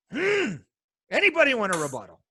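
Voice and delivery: ordinary delivery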